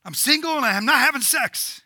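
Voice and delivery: loud, high complaining to God; mock the frustrated believer's moaning; whining grumpy Christian. Preacher mocking a grumpy Christian complaining to God, loud whine. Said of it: "They're like".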